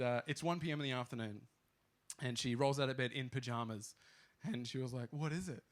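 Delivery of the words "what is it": melodramatic. Retold or imitated. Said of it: "Very melodramatic".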